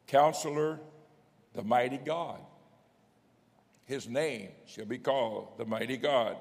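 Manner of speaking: measured pulpit reading, each title set apart; preacher reading out a verse; scripture proclamation. Acted. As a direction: proclaim each name with weight.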